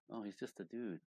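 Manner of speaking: softly acted dawning understanding; soft realization. Woman finally understanding his side, soft realization. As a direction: drop the volume as it dawns on you.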